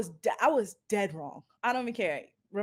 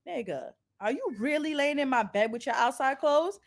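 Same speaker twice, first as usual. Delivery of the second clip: confronting; 3 semitones higher than usual. Retold or imitated. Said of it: "I said it just like that".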